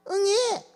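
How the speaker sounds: put-on little baby wail before the words; hammed-up newborn cry; mock baby wail. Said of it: "응애 우는 거밖에 없어".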